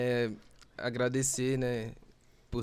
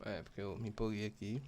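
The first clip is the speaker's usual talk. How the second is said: talking while chewing; words through a mouthful of food; mouth full; 4 semitones lower, 8 dB quieter than usual. Real, not acted. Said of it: "Esperar você terminar de mastigar".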